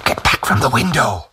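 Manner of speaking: high, strangled warning; strangled shout. A narrator's reading. Old Tag warns the women off the window, strangled shout. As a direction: shout it through a tight throat. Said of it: "shouted in a strangled voice".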